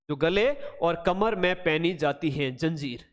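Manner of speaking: measured dictation of "गले और कमर में", word by word. Shown as a demonstration. Repeats it slowly for memorizing.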